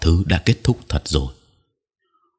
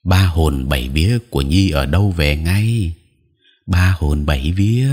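lightly intoned soul-calling chant; understated ritual recitation; reciting incantation. A narrator's reading. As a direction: intone it as a folk charm over a patient. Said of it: "ngồi cạnh em tôi mà đọc".

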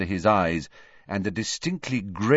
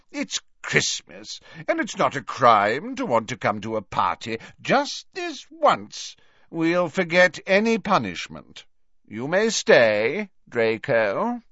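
put-on jovial old professor; 7 semitones higher than usual. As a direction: grant a favour with relish.

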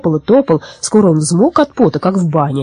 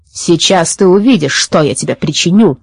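angry threat. Acted. Forester threatening little Baba Yaga, understated angry threat. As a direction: threaten firmly, without a full yell. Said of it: "заорал лесничий".

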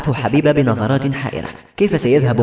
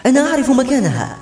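excited cry; 12 semitones higher than usual. A narrator's reading. Habiba cuts in to say she knows the place, crying out. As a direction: cry out much higher in sudden urgency. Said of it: "وهنا صرخت حبيبة".

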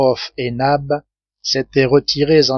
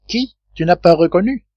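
incredulous; 5 semitones higher than usual. Acted. Sailor incredulous at Nab's question.

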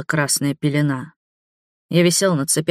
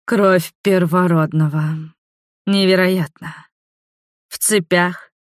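taunting vampire woman; 3 semitones higher than usual. Acted. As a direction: toy with the captive sweetly. Voices the villainess Neva.

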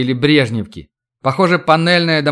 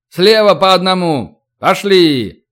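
shouting drill sergeant; 4 semitones higher, 4 dB louder, slower than usual. Acted. Drill order.

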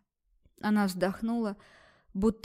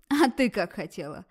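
louder rough snap; rude shout; 3 dB louder than usual. Acted. Doctor rudely yelling at the girl, loud. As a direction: bark it at her rudely. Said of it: "грубо выкрикнула".

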